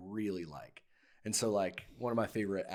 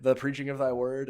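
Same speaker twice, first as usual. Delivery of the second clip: louder put-on Scottish accent; projected Scottish recitation; 4 semitones higher, 7 dB louder than usual. Shown as a demonstration. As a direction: recite it firmly in a Scots accent. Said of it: "do it in a Scottish accent".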